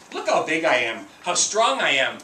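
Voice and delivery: boastful bear. Acted. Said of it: "Bear says".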